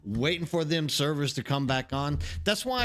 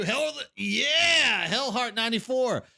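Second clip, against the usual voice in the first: a real cheer, pitched higher and pushed out; excited cheer; 6 semitones higher, slower than usual. Real, not acted. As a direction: whoop it to greet a viewer. Excited at viewer's name.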